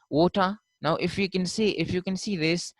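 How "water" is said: "water" said WAW-tah, no final R; British pronunciation. Shown as a demonstration. Teacher showing how a British person talks, R-less "water". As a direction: drop the R at the end of "water". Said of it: "a British person would say".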